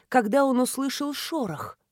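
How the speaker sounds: usual speaking voice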